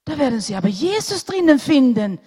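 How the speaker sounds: put-on boy cutting the doctor off, eager and loud; eager boy interrupting. A narrator's reading. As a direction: blurt it out like a keen little boy. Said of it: "unterbrach der Junge".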